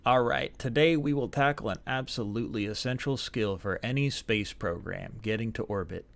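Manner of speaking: hammed-up American Southern accent; awful Southern accent. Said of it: "for my awful, awful Southern accent".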